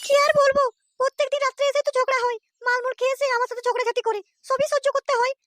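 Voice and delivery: high put-on young woman's voice, complaining; a weary wife griping about her husband; daughter's voice. Daughter complains to her father about her drunken husband.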